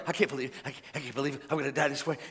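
hushed, low lament of a bird; despairing bird. Acted. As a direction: mutter it softly in mock despair. Bird laments its fate again.

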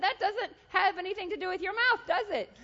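imitating a scolder demanding agreement, high and pointed; mock scolding. God asking about the speaker's mouth, loud mock scolding. God's acted scolding repeated.

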